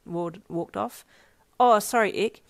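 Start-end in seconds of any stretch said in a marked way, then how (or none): 1.6-2.4 snapping to attention. A narrator's reading. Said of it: "He suddenly snapped back".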